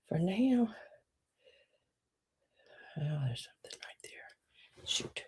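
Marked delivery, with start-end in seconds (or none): 3.0-5.2 breathy whisper to yourself; hushed annoyed mutter; whispered aside. Real, not acted. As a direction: grumble quietly at a speck. Muttering to self.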